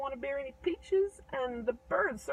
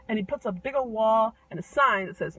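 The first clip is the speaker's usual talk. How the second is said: plain reading voice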